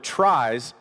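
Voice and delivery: "tries" set apart and stressed. Real, not acted. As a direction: land firmly on the word "tries". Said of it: "emphasize the word".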